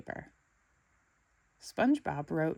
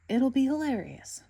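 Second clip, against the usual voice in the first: snickering; 7 semitones higher, 6 dB louder than usual. A narrator's reading.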